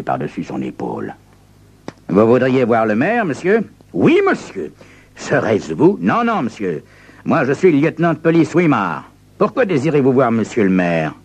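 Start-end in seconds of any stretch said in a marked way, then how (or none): 2.1-11.1 suspicious lieutenant. Acted. Police lieutenant questions visitor.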